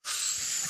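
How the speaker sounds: soft hiccuping intake; fake hiccup. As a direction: mime a hiccup with breath alone. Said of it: "Es ist der Schluckauf".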